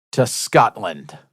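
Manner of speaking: put-on slow, half-hearted try at a Scottish accent; a botched stab at a Scottish accent; failed Scottish accent. Host attempts a Scottish accent for listeners, badly failed. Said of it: "I tried to do a Scottish accent".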